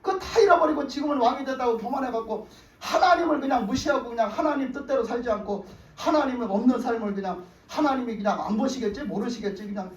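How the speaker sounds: mildly acted telling-off; imitating a prophet's reproach; retold scolding. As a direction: take Saul to task, without shouting. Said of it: "막 야단을 치니까".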